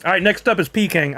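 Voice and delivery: crunching chips. Real, not acted. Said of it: "I'm sorry for the crunching".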